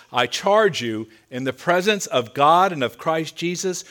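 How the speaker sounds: grave, earnest quoting of a charge; solemn charge. Retold or imitated. Apostle charging young pastor Timothy to preach, with all seriousness. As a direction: deliver it as a serious, weighty charge. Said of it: "He does it with all seriousness".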